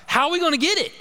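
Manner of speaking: high, anxious question from the buddy; lightly voiced helpless buddy; worried friend. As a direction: fret about the lost phone.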